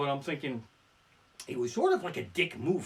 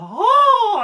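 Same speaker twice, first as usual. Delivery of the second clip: exasperated oh; 15 dB louder than usual. Real, not acted. Reacting to Myrtle.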